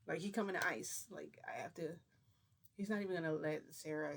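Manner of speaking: whispered panic; frightened whisper. Retold or imitated. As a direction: whisper it like you're about to be caught. Frightened aside while threatened.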